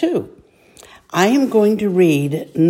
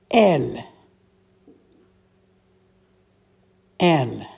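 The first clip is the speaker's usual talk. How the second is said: reading word by word; slower than usual. Shown as a demonstration. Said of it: "I will read this slowly, word by word".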